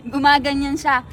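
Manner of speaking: words through laughter; laughing. Real, not acted. Laughing at how the boy shouts wow, talking through laughter. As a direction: laugh while telling it.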